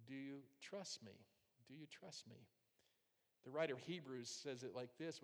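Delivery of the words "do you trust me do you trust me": second time much softer, almost a whisper; soft, tender question. Retold or imitated. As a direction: ask it gently, letting it fade. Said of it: "God says".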